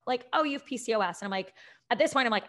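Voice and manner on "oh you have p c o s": breezy, higher, like mentioning the weather; offhand, casual. Retold or imitated. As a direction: toss off the diagnosis as if it were nothing. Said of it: "it was like, "Oh, it's raining out".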